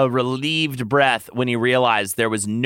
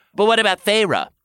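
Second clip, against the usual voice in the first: worried question; 3 semitones higher than usual. A narrator's reading. Tamlin raises a concern with the lover, worried question. First speaker worried, other amused.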